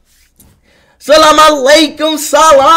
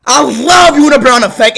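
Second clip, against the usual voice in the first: hyped shoutout. Real, not acted. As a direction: belt the name out with hype.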